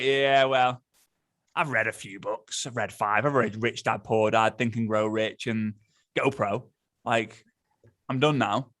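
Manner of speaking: low, bored monotone. Acted. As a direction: sound like you have lost all interest. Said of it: "got bored of it by now".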